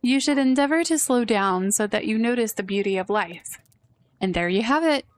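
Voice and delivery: lightly voiced lofty sage, unhurried; a hint of a pompous sage offering advice; wise old sage. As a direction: dispense wisdom like a grand old mentor. Sage tea guest gives advice.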